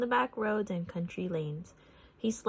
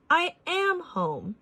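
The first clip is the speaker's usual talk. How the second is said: dog's woof voice; 9 semitones higher, 3 dB louder, slower than usual. A narrator's reading. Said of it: "He let out a thunderous woof".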